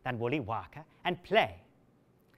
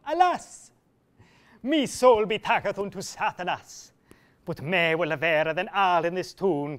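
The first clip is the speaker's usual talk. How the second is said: anguished cry; 5 dB louder than usual. Acted. Absalom crying out after the insult. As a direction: cry out in torment.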